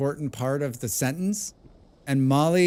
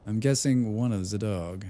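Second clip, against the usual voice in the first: repeating it through a laugh; 2 semitones lower than usual. Real, not acted. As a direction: giggle as you read it again.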